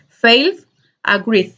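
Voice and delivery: FAILED, AGREED each ending in a voiced D; final D sound. Shown as a demonstration. Teacher reviews with students, final D sound on failed, agreed. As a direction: close failed and agreed on a clear D. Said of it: "una D al final".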